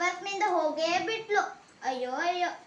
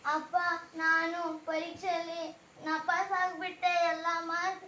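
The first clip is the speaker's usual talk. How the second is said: tearful confession. Acted. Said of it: "ಯಾಕ್ ಅಳ್ತಿದ್ಯಾ ಮಧು?".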